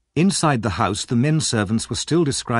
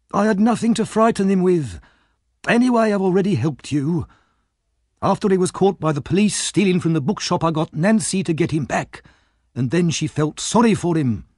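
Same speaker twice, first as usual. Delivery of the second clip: put-on higher, wheedling old crook; Fagin; 8 semitones higher than usual. A narrator's reading. Fagin justifying himself to Monks, higher voice. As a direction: plead your excuses like a sly old thief. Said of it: "Fagin said".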